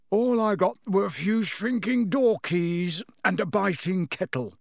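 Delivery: words stretched through a yawn. A narrator's reading. Tired father yawns out his night's finds. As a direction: speak mid-yawn, worn out. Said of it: "yawned Mister Weasley".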